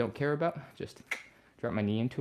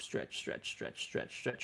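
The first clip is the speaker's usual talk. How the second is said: strained whisper; 10 dB quieter, much slower than usual. Real, not acted. Counting through a held stretch.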